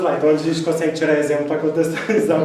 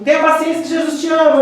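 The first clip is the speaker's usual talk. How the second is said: biker's passing remark; 11 semitones higher, 8 dB louder than usual. Retold or imitated. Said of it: "passou um homem com moto e falou assim".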